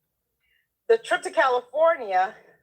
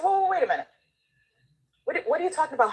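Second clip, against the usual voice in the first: mock alarmed stop; 6 semitones higher, much faster than usual. Correcting her own doubt.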